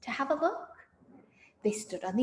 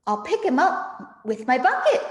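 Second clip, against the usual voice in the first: mock shout; 4 semitones higher, 5 dB louder than usual. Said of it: "shouted Bunce".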